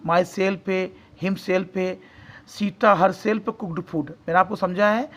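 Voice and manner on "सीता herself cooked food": each word drawn out slowly; slow dictation. Shown as a demonstration. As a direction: read slowly so students can write. (धीरे-धीरे बोला गया वाक्य)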